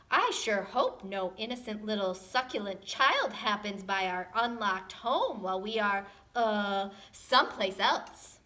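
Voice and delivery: sly Mama Dinosaur. Acted. Mama Dinosaur sly villain hint.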